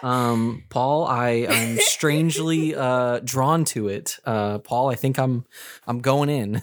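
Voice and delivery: lightly played on-the-scene reporter; a hint of a TV field reporter, slowing down; news anchor voice. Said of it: "my news anchor voice's mouth".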